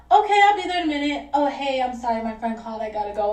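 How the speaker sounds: understated, matter-of-fact apology; natural-sounding excuse. Acted. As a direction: play the fake phone excuse naturally. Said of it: "like, naturally".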